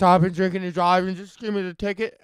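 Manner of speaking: mock drunk Newfie accent; badly faked Newfoundland drunk. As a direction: put on a thick Newfie drunk voice, roughly. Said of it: "Just a drunk-ass Snoopy".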